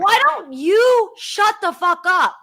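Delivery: angry. Real, not acted. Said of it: "Yes, I am angry".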